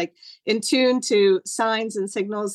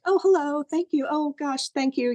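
high-pitched, distracted hello and thanks; flustered greeting; 6 semitones higher than usual. Busy hostess greeting a butterfly at the sink, flustered. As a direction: re-enact a harried, polite thank-you.

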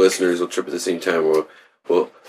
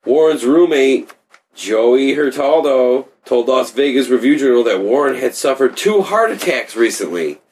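news anchor voice; 2 semitones higher than usual. Pretend. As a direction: read it like a newscaster. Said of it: "news anchor voice".

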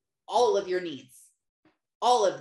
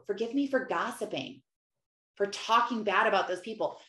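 confessional prayer; 3 semitones lower than usual. Shown as a demonstration. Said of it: "and tell him".

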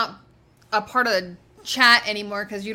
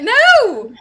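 loud, high no; high, protesting shout; emphatic refusal; 10 semitones higher, 10 dB louder than usual. Real, not acted. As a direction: shout down the request. Refusing to attempt the accent.

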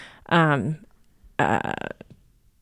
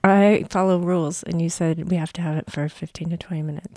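talking with a face mask on; through a face mask. Real, not acted. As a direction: lips stiff under a drying face mask. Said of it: "while you still have this mask on your face".

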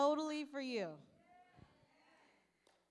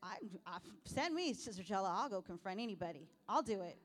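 eager volunteer; 5 semitones lower, faster than usual. Retold or imitated. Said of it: "some of us are like".

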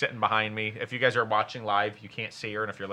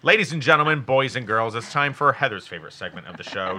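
booming ringmaster announcement; loud showman introducing the act; 5 dB louder than usual. Pretend. Announcing a show segment.

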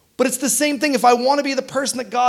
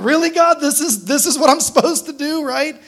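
higher, half-laughing exasperation at God; exasperated plea; 5 semitones higher than usual. Retold or imitated. Preacher voicing her own complaint to God, higher and exasperated. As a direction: throw up your hands, asking God if he's serious. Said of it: "I'm like".

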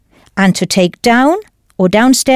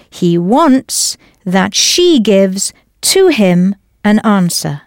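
German word order; slower than usual. Shown as a demonstration. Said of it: "So a German person would say".

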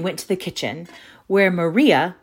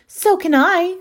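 eager boast; 13 semitones higher, 5 dB louder than usual. A narrator's reading.

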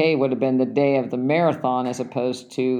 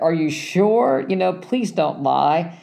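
higher, slow, begging disbelief; weary pleading; 4 semitones higher, slower than usual. Retold or imitated. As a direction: plead slowly, too tired to be lied to. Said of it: "It's like".

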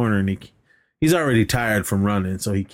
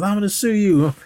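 mock high threat; 10 semitones higher than usual. Acted threat.

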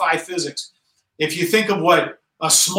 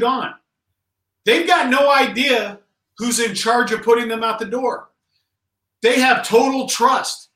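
building passion; 5 semitones higher than usual. Real, not acted. Rousing speech about paratroopers' trust.

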